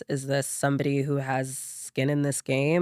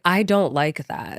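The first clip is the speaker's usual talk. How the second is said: firm refusal; 4 semitones higher than usual. Retold or imitated. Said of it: "just saying, like".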